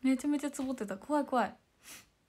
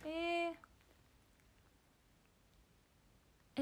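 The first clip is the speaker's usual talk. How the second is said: usual speaking voice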